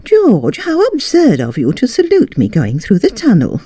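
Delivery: a wife scolding her husband in mock reproach; wife's voice. A narrator's reading. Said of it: "the lady said".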